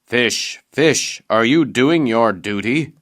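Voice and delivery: calling loudly to the fish. Acted. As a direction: raise the voice to summon them. Giant calls to the fish.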